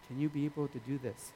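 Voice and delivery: softly imitating a kindly mentor; gentle request. Pastor correcting a team member, gentle. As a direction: ask gently, lightly hushed. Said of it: "gentle people who".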